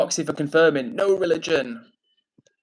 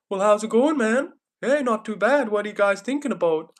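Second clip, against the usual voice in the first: higher-pitched mock Canadian accent; 6 semitones higher than usual. Streamer mimicking YouTubers' mates from Canada, Canadian accent. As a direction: imitate a proper Canadian, lilting up high. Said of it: "proper Canadian. They're like".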